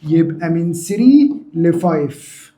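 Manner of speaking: drawn out at dictation speed; slow, deliberate repeat. Shown as a demonstration. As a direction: stretch each part of the answer slowly. Teacher repeats answer slowly for class. (إعادة ببطء وتمهّل)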